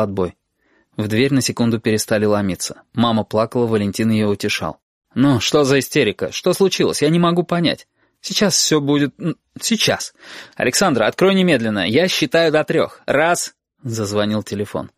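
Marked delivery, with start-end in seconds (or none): 5.1-13.5 отчим. Acted. Валентин утешает, потом требует.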